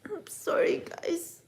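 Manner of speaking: real whisper; whispered apology. Real, not acted. Vlogger apologises to her viewers for swearing, whispered. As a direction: breathe it as a sheepish aside.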